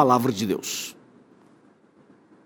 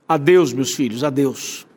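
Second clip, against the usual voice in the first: tearful farewell; 3 semitones lower than usual. Retold or imitated. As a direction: let tears sit in the voice as Jesus says goodbye. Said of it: "com lágrimas nos olhos, na voz".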